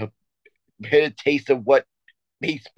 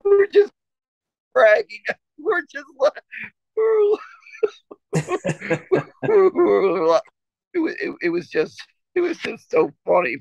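words breaking up into high squealing laughter; can't get the words out for laughing; laughing hard; 13 semitones higher than usual. Real, not acted. Telling his co-host the story, cracking up with laughter.

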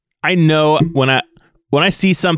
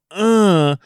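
imitated grunt; 6 semitones higher than usual. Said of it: "as you're hearing him go".

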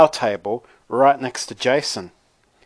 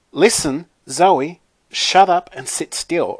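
higher, louder telling-off; scolding; 6 semitones higher, 5 dB louder than usual. Acted. Narrator to giggling friend during tattoo, scolding. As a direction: snap at a fidgety friend to behave.

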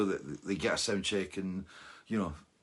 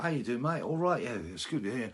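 put-on London accent; 2 semitones higher than usual. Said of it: "he talked in his London accent".

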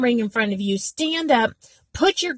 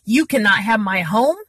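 demo rebuke. Shown as a demonstration. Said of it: "I'm saying".

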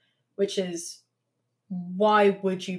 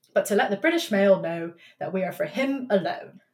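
a wobbly mix of Boris Johnson and Cockney; matey British bloke, drifting between accents. Retold or imitated. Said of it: "I was gonna put on a bloke voice for this".

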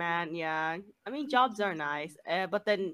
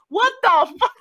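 stunned; 11 semitones higher, 11 dB louder than usual. Retold or imitated. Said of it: "I was like".

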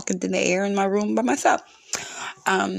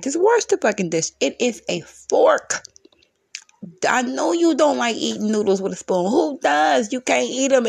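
frustrated; 4 semitones higher than usual. Real, not acted. Mother venting at kids about missing forks, frustrated. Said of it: "I'm just so frustrated".

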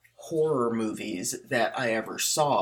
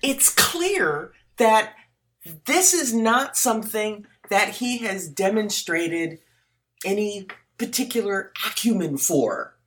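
carefully diplomatic; 8 semitones higher, 3 dB louder than usual. Real, not acted. Co-host politely faulting an actor's accent, carefully diplomatic. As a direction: choose each phrase delicately, pausing between them. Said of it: "diplomatically said".

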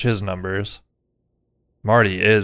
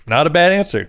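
brighter, higher repeat; upbeat; 5 semitones higher, faster than usual. Shown as a demonstration. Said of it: "repeated take".

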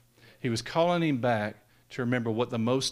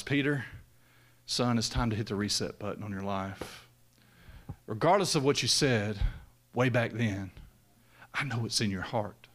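tender reassurance; 3 semitones lower than usual. Retold or imitated. Jesus speaks gently to Peter.

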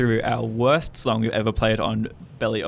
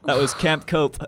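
put-on American accent; 2 semitones higher than usual. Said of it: "I don't know why I did an American accent".

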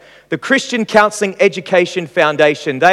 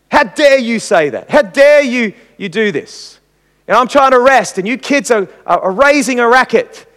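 a mildly raised, scolding parent voice; angry telling off; 3 semitones higher than usual. Retold or imitated. Parent scolding the fighting kids over the remote, mock angry. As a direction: tell the kids off like an irritated parent, half-acted. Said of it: "respond with anger. You tell the kids off".

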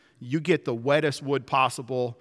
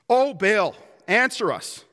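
calling out to Baal; 5 semitones higher than usual. Acted. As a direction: cry out like worshippers calling their god. Pagans praying aloud to Baal.

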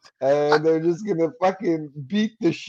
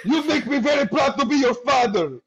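hammed-up proud father; 8 semitones higher than usual. Mock father telling his child how proud he is, high and syrupy. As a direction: lay the fatherly pride on thick.

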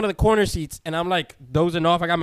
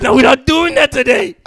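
firm shutdown; 7 semitones higher, 8 dB louder than usual. Retold or imitated. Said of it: "he's like".

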